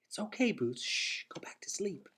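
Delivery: put-on hushed, gentle shushing to a sleeping toddler; big brother whispering to sleepy Boots, soothing. A narrator's reading. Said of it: "soothed her back to sleep with his voice".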